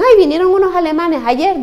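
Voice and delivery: high, mock-naive student voice; imitating the student. Student quoted in anecdote.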